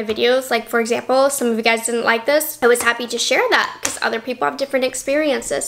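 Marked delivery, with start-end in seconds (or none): 2.6-5.7 breathless, rushing; out of breath. Real, not acted. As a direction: talk out of breath, then sigh. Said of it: "I'm out of breath".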